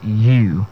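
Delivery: "you" said simply, like the pronoun; correct pronunciation. Shown as a demonstration. Coach showing how the word is simply pronounced, correct pronunciation. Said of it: "the word is simply pronounced as you".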